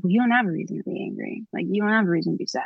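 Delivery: fast, dismissive lecturing; mock dismissive. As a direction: brush the feelings off quickly. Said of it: "people would be like".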